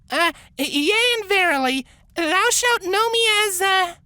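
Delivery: put-on high, hesitant old-fashioned formal speech; faltering mock-formal incantation; archaic summoning. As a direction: stumble through grand archaic words. Misty resumes archaic fancy talk.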